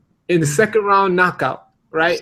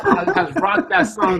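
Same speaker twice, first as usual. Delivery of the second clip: exasperated; 11 semitones higher than usual. Real, not acted. Exasperated rant.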